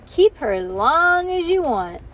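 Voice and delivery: high, loud call with stretched words. A narrator's reading. Boy calling after girls leaving with toddler, loud and high. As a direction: holler it after someone leaving. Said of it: "called Jean the boy".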